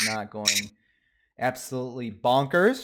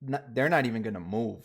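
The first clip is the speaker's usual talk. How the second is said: speaking without moving lips; talking with mouth closed. Real, not acted. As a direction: lips held still while talking. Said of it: "how do you talk without moving your lips".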